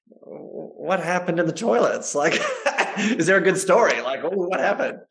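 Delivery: high, giggly teasing question; laughing curiosity. Retold or imitated. Asking his partner with a laugh, giggly and curious. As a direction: ask through a laugh, eager for gossip.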